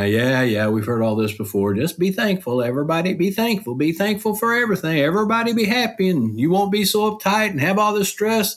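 high, sing-song mockery of the doubters; mocking skeptic voice. Mimicking a skeptic who's heard it all, mocking and high. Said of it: "are probably thinking right now".

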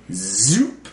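high, beeping robot noises; robot saying binary. Pretend. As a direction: beep and boop like a robot. Robot noises opening podcast.

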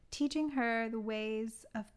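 measured, deliberate film-blurb read; summary read-out. Acted. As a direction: read out a prepared plot summary, phrase by phrase. Reads out own plot summary.

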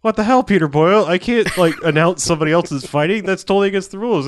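high, loud mock protest from the referee; indignant referee. Referee protesting to Peter Boyle, mock indignant and high.

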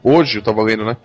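normal talking voice

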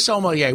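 "sommelier" said as so-mel-YAY, stress on the last syllable; "sommelier" with a French-style final "yay"; own pronunciation. Shown as a demonstration. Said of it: "I, I say sommelier".

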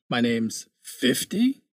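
slow, drawn-out comedy line delivery; deadpan it slowly like a sketch bit; quoted comedy line. Retold or imitated. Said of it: "do that line from, uh, what is it, from Dropout?".

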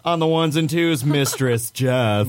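laughing through a cheesy host intro; lame announcer voice. Acted. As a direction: announce the name, cracking up midway. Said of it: "the greatest lame announcer voice ever".

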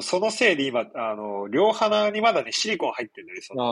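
blocked nose, speaking through silicone packing; nasal voice. Real, not acted. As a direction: talk with a stuffed, nasal voice after nose surgery. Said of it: "なんか鼻声ではある".

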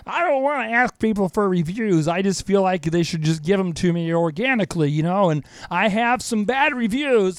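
reluctant pastor voice. Retold or imitated. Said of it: "who's saying to themselves".

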